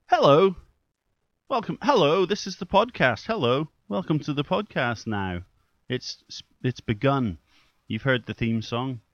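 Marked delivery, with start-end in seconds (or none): 0.0-7.4 higher, louder, overdone hello and welcome; mock podcast host. Shown as a demonstration. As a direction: show how a plain hello opener sounds, hammed up. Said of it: "Just to say".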